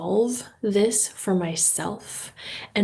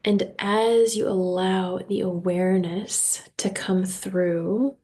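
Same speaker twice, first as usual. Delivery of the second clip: guided meditation. Real, not acted. Host leading listeners through breathing and intentions, guided meditation. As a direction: guide them unhurriedly into relaxation.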